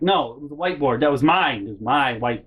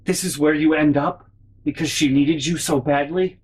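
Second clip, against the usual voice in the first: melodramatic lament. Acted. Acted lament addressed to lost whiteboard.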